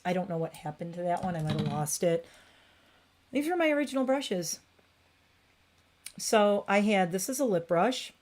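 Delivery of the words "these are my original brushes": higher proud restatement; higher, proud show-and-tell; proud higher repeat. Real, not acted. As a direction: say it up high, showing off. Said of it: "repeated statement".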